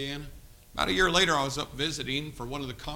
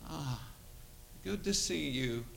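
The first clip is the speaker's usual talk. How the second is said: very soft, slow, dazed imitation; Carmelo; 8 dB quieter, slower than usual. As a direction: drag the words out as a drug-damaged boy. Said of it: "he talked like that".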